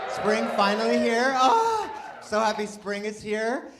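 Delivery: high, loud squeal of joy at spring; gleeful cheer. Real, not acted. Comic squeals to the crowd that spring is here. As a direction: burst with delight.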